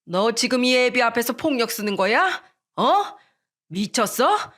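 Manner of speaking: a touch of an outraged father; father scolding his son; angry father. Acted. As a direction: snap at the son who threw the glass. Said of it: "시부가 또다시 역정을 내던".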